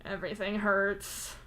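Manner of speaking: slow, whimpering complaint. Acted. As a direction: whimper it pitifully. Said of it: "Solix whimpers".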